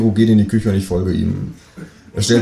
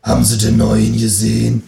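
nosy Berlin neighbour voice; downstairs neighbour. Acted. Downstairs neighbour pries about the newcomer, in Berlin dialect. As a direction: ask as the Berlin woman downstairs. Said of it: "begegnet mir die Nachbarin von unten".

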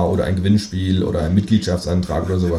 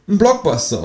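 high-pitched demanding kangaroo; high talking-animal voice; 11 semitones higher than usual. Acted. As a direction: order it in a high creature voice. Kangaroo answers.

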